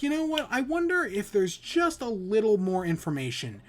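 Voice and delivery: high, tempted musing; curious self-talk. Retold or imitated. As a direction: lift the voice as temptation creeps in. Retelling own curious inner voice.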